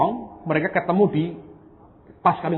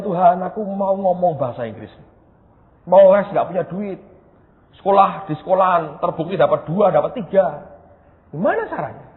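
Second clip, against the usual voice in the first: pleading prayer; 3 semitones higher than usual. Retold or imitated. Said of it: "Saya bilang".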